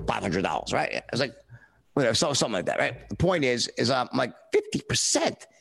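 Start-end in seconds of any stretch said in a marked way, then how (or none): 4.5-5.5 retold disbelief. Stunned at commission size.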